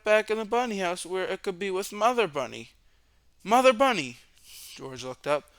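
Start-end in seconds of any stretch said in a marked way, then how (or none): 3.4-4.2 higher, louder eureka; sudden realization. A narrator's reading. Narrator voices George realizing Mother Bunny can help, higher and louder. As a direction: exclaim the idea.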